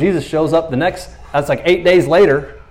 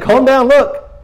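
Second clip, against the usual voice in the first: urgent calming; 9 semitones higher, 5 dB louder, slower than usual. Pretend.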